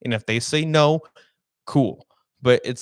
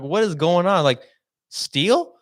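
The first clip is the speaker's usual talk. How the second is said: incredulous, rising higher on steal; confused disbelief; 6 semitones higher than usual. Retold or imitated. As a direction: pitch leaps high on a baffled question. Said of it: "I'm very confused at this point".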